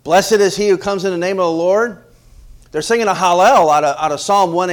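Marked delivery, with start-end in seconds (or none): 0.0-2.0 mildly raised voice of a praising crowd; acted acclamation, a little higher and louder; crowd crying praise. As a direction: cry it out like a welcoming crowd, lightly acted. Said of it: "everyone's crying".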